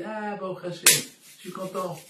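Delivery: imitated father's loud, high burst of joy; delighted exclamation. Father to a beaten man, delighted exclamation. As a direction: exclaim it high and loud, as a retold outburst of relief. Father rejoices at a shocking tale.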